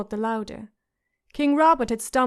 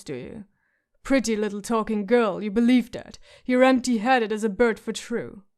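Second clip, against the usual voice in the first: rasped. Acted. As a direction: growl it out like a scarred drunk soldier. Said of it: "the hound rasped".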